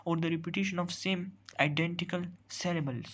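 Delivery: slow, deliberate reading of a definition; teacher dictating a definition slowly. Shown as a demonstration. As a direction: spell the rule out word by word, very slowly. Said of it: "reads definition out slowly".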